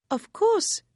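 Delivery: excited chatter; Harriet, eager and girlish. Acted. Harriet answers brightly.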